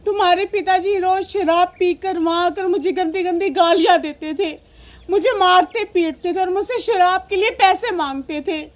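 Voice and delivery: sobbing mother's lament; crying. Acted. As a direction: cry through the words, sinking at the end. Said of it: "आप रो क्यों रही हो". (रोते हुए दुखड़ा सुनाना)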